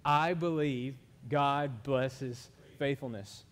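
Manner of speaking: very slow, measured declaration of faith; leading group recitation. Shown as a demonstration. Preacher has congregation say it with him, slow recitation. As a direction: lead the room word by word, drawn out and firm. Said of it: "Y'all wanna say it with me?".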